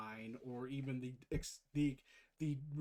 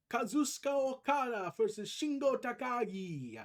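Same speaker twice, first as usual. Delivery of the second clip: anime announcer; 7 semitones higher, 5 dB louder than usual. Pretend. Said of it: "try to sound like I'm an anime character".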